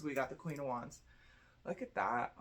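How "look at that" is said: higher, pleased look at that; delighted. Real, not acted. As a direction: show off the card with delight. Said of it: "said twice".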